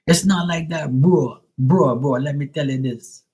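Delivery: high, loud mock Jamaican; hammed-up Jamaican accent. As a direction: argue like a Jamaican, playfully exaggerated. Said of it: "the Jamaicans are starting to say".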